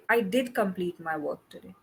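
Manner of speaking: DID emphasized to insist it was done; emphatic DID, as if answering an accusation; stress on DID. Shown as a demonstration. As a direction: lean on the word DID. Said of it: "you are emphasizing on did".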